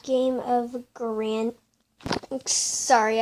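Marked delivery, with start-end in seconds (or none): 0.0-1.5 interrupted by a hiccup; words cut off by hiccups. Real, not acted. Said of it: "I have the hiccups".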